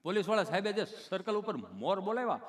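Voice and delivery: lightly voiced halting stammerer; a slight catch between phrases; tongue-tied Gabho. Gabho explaining to the nurse, mildly stammering. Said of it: "ચોંટે અટકે".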